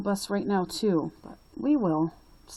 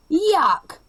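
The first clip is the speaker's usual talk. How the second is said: put-on a bully hollering at the girls, loud; 2 semitones higher, 4 dB louder than usual. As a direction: jeer across the lunch table. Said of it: "Ralph hollered".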